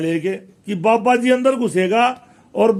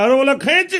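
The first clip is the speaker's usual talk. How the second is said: shouting up to be pulled out, getting higher; calling out louder and louder; 7 semitones higher than usual. Acted. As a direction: pitch climbing much higher on each खींच. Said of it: "फिर बाद में धीरे जोर जोर से पुकारने लगा".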